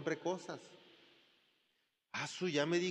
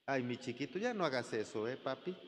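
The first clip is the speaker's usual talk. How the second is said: soft, lower pampering voice; doting mother; 4 semitones lower, 4 dB quieter, faster than usual. Retold or imitated. Preacher imitating a mother gently scolding her grown son, pampering. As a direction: gently scold him like a baby.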